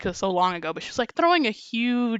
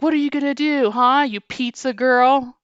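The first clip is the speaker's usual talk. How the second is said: higher, louder jeering customer; mock taunt; 4 semitones higher, 5 dB louder than usual. Retold customer taunting the pizza girl, mock jeer. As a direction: sneer it like a bully.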